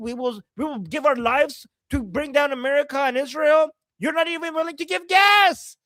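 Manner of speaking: angry rant. Real, not acted. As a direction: tear into her for what she caused. Scolding the pro-regime woman.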